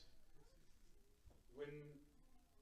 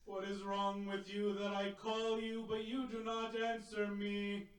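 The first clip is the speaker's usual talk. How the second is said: calling out to the fallen; 6 dB louder than usual. Retold or imitated. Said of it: "and he calls out".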